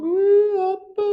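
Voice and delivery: high crying whimper for daddy; imitated crying. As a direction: wail like a sleepy child. Daughter crying, retold. (울면서 아빠를 부르는 딸 흉내)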